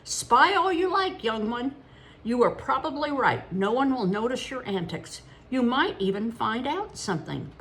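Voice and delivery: put-on lightly cackling old man. A narrator's reading. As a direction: tease the boy kindly. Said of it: "the old man cackled".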